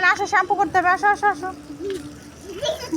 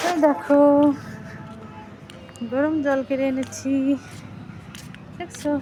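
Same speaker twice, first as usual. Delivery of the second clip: slower, softer, soothing; soft coaxing repeat; 4 dB quieter than usual. Real, not acted. Mother shows child warm water again.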